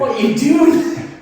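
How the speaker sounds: high, slow Cockney shout; a lightly done Cockney driver; Cockney accent. Retold or imitated. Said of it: "Except in a Cockney accent".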